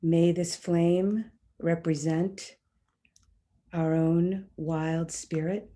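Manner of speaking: solemn invocation, phrase by phrase; ceremonial invocation. Real, not acted. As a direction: speak it as a ritual blessing, unhurried. Speaks a candle-lighting invocation.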